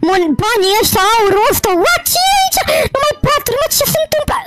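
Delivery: high, stammering disbelief; startled and confused, words tumbling over themselves; bewildered shock. Acted. Acted shock at waking somewhere strange.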